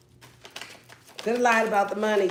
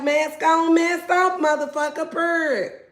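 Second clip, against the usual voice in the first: higher, louder sassy chant; sassy Sag voice; 7 semitones higher, 5 dB louder, slower than usual. Pretend. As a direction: toss it off with attitude. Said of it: "You're like".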